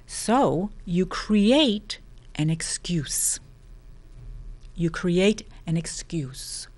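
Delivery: slow whisper, leaning in; whispered emphasis. Acted. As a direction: whisper the point slowly. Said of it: "whispered repeat of key line".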